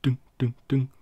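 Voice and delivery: mimicked repeated dunk noise; imitated dunking sound. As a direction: voice a small object bouncing, evenly spaced. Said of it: "you hear, like".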